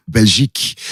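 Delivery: slow, grand Eurovision vote announcer; hammed-up Eurovision results read. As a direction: announce the points like the jury spokesperson, laughing. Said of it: "I got asked to read out the results".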